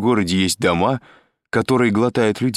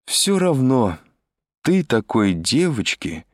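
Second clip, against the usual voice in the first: higher, halting tipsy voice with restarts; drunk Selma; 4 semitones higher, slower than usual. A narrator's reading. Selma lures Andrei over the phone, drunken stumbling. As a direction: trip over the words, drunk and coaxing. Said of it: "совершенно пьяный голос Сельмы".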